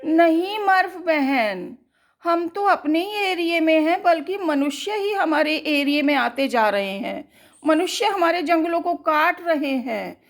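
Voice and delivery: lightly voiced animal, fast and earnest; pleading animal. Forest animal pleading with sister Murph, fast and earnest.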